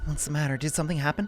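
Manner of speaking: put-on acted girlish voice. Voicing a character in a visual novel: girl voice. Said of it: "Never done a girl voice this long before".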